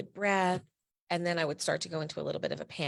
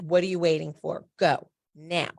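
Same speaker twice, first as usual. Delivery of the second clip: angry coach yelling; 7 dB louder than usual. Retold or imitated. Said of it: "he screams at me".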